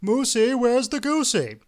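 high, loud pleading yell; impatient yell. A narrator's reading. Hungry husband demanding the goose from his wife, yelling. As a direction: yell out as if unable to hold back. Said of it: "unable to control himself yelled out".

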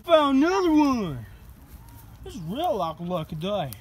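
light country twang; country accent. Real, not acted. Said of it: "I'm doing the accent again".

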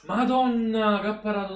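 a loud, high burst of amazement at the save; amazed exclamation. Real, not acted. Streamer watching Italy, stunned by Donnarumma's save. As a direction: blurt it out, stunned by the keeper.

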